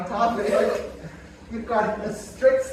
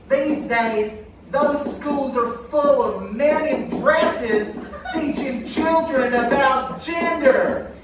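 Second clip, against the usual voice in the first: dismissive dummy voice, raised pitch; Aunt Karen puppet voice; 4 semitones higher, slower than usual. Acted. Dummy aunt brushing off the death rate, scoffing.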